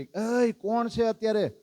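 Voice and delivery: retold night-time shout of "એય"; retold call from above. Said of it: "આમ બૂમ પાડી".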